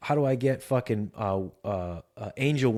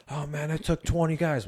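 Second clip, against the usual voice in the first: astonished guard; 5 semitones higher than usual. Acted. Guard marvelling at the moved stone, pitched up in amazement.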